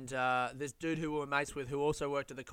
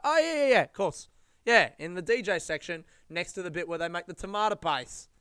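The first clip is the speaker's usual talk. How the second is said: high, loud mock "oh yeah of course"; sarcastic mock agreement; 3 semitones higher, 6 dB louder than usual. To listeners, mocking people humoring her, in sarcastic agreement. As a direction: play the staff humoring a ridiculous claim. Mocking staff's baffled reaction.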